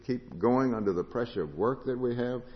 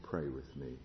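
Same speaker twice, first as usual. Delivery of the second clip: quiet plea; 7 semitones lower, 9 dB quieter than usual. Acted. Jesus in Gethsemane asks disciples.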